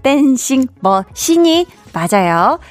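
댄싱 머신이 said slowly, 머신 clearly not 머슴; careful pronunciation. Shown as a demonstration. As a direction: spell out 머신 slowly through the mask. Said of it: "댄싱 머슴처럼 들릴 수도 있는데". (머신을 또박또박 천천히)

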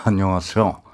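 low, soft actor's ad voice; calm low whispery ad read; Han Suk-kyu impression. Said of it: "한석규입니다".

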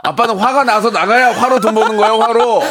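high, indignant mock rant; comic angry dad. Angry-comedian dad answers child's complaint, comic anger. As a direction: rant angrily with a laugh underneath. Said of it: "아빠 왜 맨날 화내면서 말해?".

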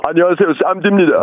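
Acted. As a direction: lightly impersonate a rapper saying hello. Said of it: "안녕하세요, 쌈디인데요. 큐".

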